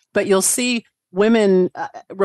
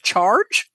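"Charge" rising like a question; questioning battle cry. Acted. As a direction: yell "Charge" as if unsure, pitch lifting. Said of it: "it's everything".

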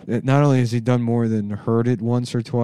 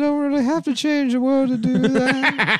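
high mock voice; 4 dB louder than usual.

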